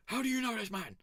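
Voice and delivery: high squeaky guard voice; mock guard. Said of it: "They were like".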